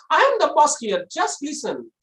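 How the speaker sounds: comically high boss voice; high-pitched command. Shown as a demonstration. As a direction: give the boss's order far too high. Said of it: "So it will be so funny".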